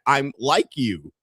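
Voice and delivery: drawn-out mimicry of a slow speaker; slow mock imitation. Streamer copies the politician's line, mocking slow delivery. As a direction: drag out each word as if imitating him. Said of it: "Why is he talking so slow?".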